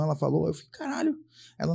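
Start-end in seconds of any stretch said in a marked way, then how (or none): 0.7-1.2 high startled exclamation; mock shock. Patient hearing about surgery, in a high mock exclamation. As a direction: pitch way up, then cut off.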